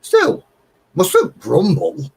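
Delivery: high, slow, sing-song grumble line; drawn out like a weary old neighbour; mock resigned catchphrase. Telling viewers the catchphrase, in a slow mock-weary drawl. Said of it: "You've got to say in your video".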